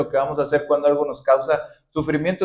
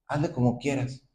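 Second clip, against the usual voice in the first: dismissive shrug; 3 semitones lower, 8 dB quieter than usual. Acted. Dismissive end of prayer.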